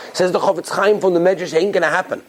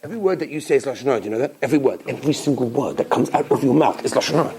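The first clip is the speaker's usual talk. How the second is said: sly tempter voice; 7 semitones lower, faster than usual. Retold or imitated. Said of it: "He'll say to you".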